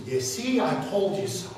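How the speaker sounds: gloating at the converted liberal, pitch up; mocking gloat. Caller mocks a gloating host with a taunt. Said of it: "And one thing you never do is".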